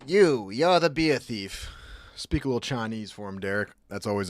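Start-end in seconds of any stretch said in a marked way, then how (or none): 0.1-1.7 higher, drawn-out British rocker impression; mock British accusation. Viewer echoing the beer thief video, higher slow impression. Echoes the played clip's accusation.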